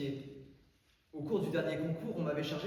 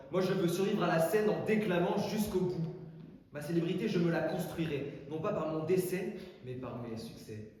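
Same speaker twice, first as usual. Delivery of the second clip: defiant declamation; 3 semitones higher, 4 dB louder than usual. Acted. Orator declaims his defiance.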